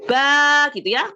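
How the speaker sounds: slow, drawn-out "Ba"; teacher drawing out "Ba"; long ba. Shown as a demonstration. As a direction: stretch out the "Ba" with a long open a. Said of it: "diharokat fathah".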